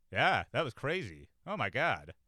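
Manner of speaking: drawn-out, unimpressed exclamation; unaffected reaction. Acted. Comic demonstrating what sounds funnier, unaffected. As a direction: react slowly, as if nothing touches you. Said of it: "You're, like, unaffected".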